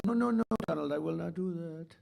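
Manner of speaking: lightly imitated French accent, refusing; Macron French accent. Mimicking the French president refusing to cut prices, mock French accent. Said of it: "Beautiful accent".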